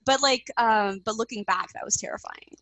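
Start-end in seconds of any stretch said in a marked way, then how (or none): 1.7-2.6 whispered, unvoiced. Real, not acted. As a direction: breathe it out in a whisper. Looking back on scary deadline.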